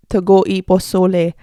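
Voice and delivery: American English switching to Spanish on pozole; Spanish accent on pozole. Real, not acted. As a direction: slip into Spanish pronunciation for pozole. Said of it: "then your accent changes".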